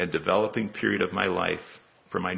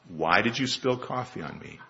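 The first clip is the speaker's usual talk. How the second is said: calm repeated question; 7 dB quieter than usual. Acted. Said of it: "he says for a third time".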